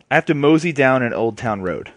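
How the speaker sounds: put-on mosey it out like an old cowboy. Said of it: "why is he talking like this".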